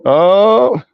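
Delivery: amused laugh at own throw. Real, not acted.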